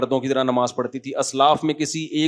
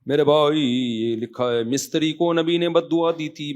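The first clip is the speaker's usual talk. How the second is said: singsong read-aloud with drawn-out words; signature question-reading tune. Shown as a demonstration. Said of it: "اسی style سے پڑھیں جیسے آپ کراچی میں پڑھتے ہیں".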